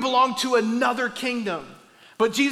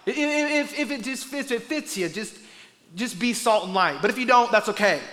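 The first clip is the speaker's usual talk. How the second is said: mock casual. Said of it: "He's not saying".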